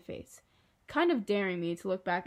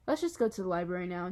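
bored. Acted. Jack calls out to leave for the library, bored. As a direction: say it as if mildly fed up with waiting. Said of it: "sounding really bored".

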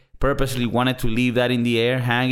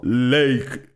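staccato. Retold or imitated. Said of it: "one word at a time".

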